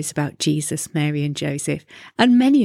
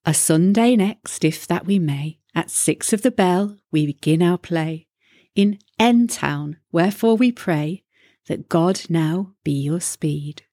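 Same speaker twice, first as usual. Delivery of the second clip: town crier announcer. Acted. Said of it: "finishing up with".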